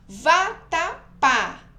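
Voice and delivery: "Vatapá" slow and loud, three beats ending on strong PÁ; exaggerated "Vatapá", high and loud, final PÁ stressed. Shown as a demonstration. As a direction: chop "Vatapá" into syllables and land hard on PÁ. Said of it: "O pá, né, que é acentuado aqui, é a mais forte".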